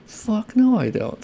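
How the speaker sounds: high, forceful "Fuck no"; emphatic refusal. Real, not acted. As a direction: shut the idea down hard, then drop back.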